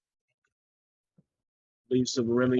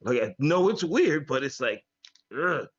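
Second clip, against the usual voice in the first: muffled mic, like underwater. Real, not acted. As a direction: sound muffled, far behind the mic. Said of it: "You're, you're muffling".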